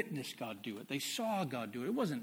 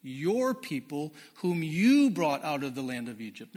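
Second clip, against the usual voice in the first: loud, slow pleading read; scripture reading; 5 dB louder, slower than usual. Acted. Preacher voicing Moses pleading with the Lord, loud slow scripture read. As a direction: plead with God on behalf of the people.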